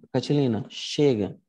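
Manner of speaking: a lightly voiced, firm warning; mild threat. Shown as a demonstration. Teacher voicing Cicero warning Catilina, lightly threatening. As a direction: put your foot down, understated. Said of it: "é um tom de ameaça".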